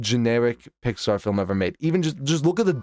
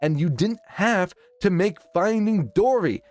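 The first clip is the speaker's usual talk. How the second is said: higher and building, fed-up ranting; exasperated rant; 5 semitones higher than usual. Acted. Ranting at Pixar about Finding Dory, rising exasperation. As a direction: pile on the complaints, climbing higher. Scolding Pixar executives directly.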